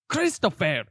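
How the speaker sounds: drawn-out call in aunt's voice; imitating aunt. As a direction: call the name slowly, mimicking an aunt. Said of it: "your aunt sounds like that".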